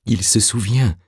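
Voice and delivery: high-pitched murmur, not softened; awed murmur. A narrator's reading. Orastès sees the revived man remember, murmuring high. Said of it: "murmura Orastès".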